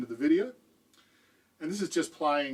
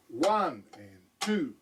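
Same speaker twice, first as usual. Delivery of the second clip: slow demo count; much slower than usual. Shown as a demonstration. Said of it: "it looks a little bit like this".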